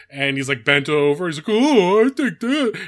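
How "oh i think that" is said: high, loud, drawn-out mocking voice. Describing a meme to reply with: mocking SpongeBob meme voice. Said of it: "put your response in a SpongeBob meme where he's doing that, like, chicken face".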